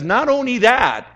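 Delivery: high, loud, drawn-out build-up; excited announcement. Retold or imitated. Preacher voicing the apostle to the congregation, excited. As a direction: hype it up like great news is coming. Apostle's escalating promise, acted.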